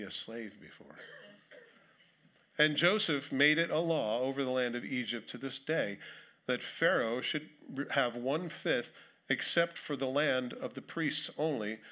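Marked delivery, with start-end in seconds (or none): 2.6-11.8 solemn public reading of scripture. Acted. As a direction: read the passage out with weight. Reads scripture aloud.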